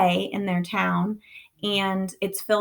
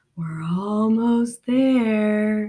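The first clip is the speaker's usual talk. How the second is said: eerie, spooky creepy voice with drawn-out there. Reading a story aloud, voicing the narrator's dad calling out, in a scary, creepy voice. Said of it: "in a kind of scary, creepy voice".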